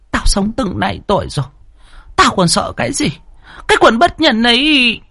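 put-on a stubborn old servant cursing her masters; defiant old nurse. A narrator's reading. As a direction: spit out her contempt, afraid of nothing.

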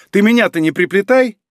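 high, indignant protest. A narrator's reading. Норико calls across the room, indignant. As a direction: object loudly to being dragged in. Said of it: "возмутилась уже Норико".

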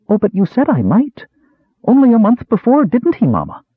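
high, pleading protest, rising to a cry; beg, as if a promise is being broken. Acted. Daughter protesting to father and mother, high pleading cry. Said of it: "the daughter cried".

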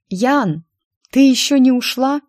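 scolding shout; snapping at someone. A narrator's reading. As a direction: raise your voice at her. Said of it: "прикрикнула я на Ирочку".

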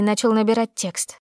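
plain reading voice

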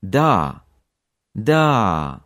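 "da" with a long drawn-out a; "da" held as daaa; lengthened vowel. Shown as a demonstration. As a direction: stretch the a of "da". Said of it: "which will often sound like".

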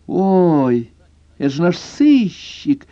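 put-on high, slow, gushing girlish voice; delighted exclamation. A narrator's reading. Girlfriend greeting the detective with delighted gushing. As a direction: gush with delight over the guest. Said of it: "восторженно воскликнула".

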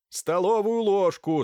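doctor commanding the servants, firm and loud. A narrator's reading. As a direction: snap out the order. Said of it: "скомандовал Тоннер".

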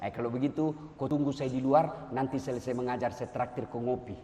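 low, soft friendly invitation; calm teacher voice, kept down low; not angry. Acted. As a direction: let the latecomer off gently. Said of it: "Dia nggak marah".

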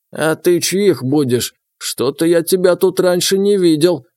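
put-on suspicious old villager, creaking; creaky old man. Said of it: "проскрипел он".

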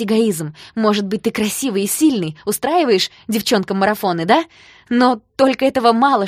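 loud, rising angry outburst; furious tirade. Acted. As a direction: tear into him with contempt. Heroine furiously tells him off.

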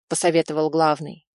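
ordinary delivery, nothing marked

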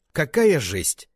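громкий, высокий нервный возглас; лёгкая истерическая весёлость без улыбки; весело, почти истерически. A narrator's reading. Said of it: "весело, почти истерически". (брат выкрикивает с нервным, почти истерическим весельем)

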